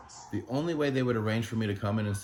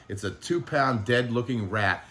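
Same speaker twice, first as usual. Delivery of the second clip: mock dismissive doctor; 5 dB louder than usual. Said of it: "it literally felt like".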